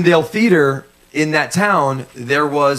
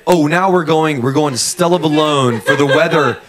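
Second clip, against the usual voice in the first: news anchor handoff. Pretend. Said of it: "I say".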